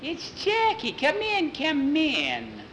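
very high, squealing witch voice; excited witches. Acted. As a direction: usher him in with witchy excitement. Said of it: "they looked so excited".

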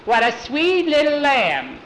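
high, sing-song coo over a cute lamb; lightly hammed-up doting voice; cooing play-acting. Skeeter fussing over the little lamb, high cooing.

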